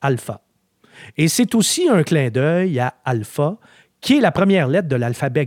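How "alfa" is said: lightly Italian-accented, rolled and sung out; mock Italian accent. Shown as a demonstration. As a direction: say the Italian name with a hammed-up Italian accent. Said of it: "je vais essayer de le dire avec, euh, mon accent, euh, italien, euh, catastrophique". (accent italien exagéré, pour rire)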